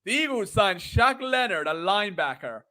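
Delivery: put-on American accent; self-conscious fake American. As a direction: attempt an American read, falling away at the end. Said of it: "I can't say linebacker in American".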